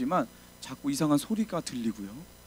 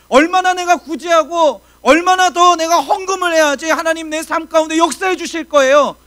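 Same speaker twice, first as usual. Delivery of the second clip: loud, high grumbling prayer, hammed up; mock whining complaint; 12 semitones higher, 11 dB louder than usual. Preacher mimicking a believer's grumbling prayer: loud mock whining. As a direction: whine at God like a complaining believer.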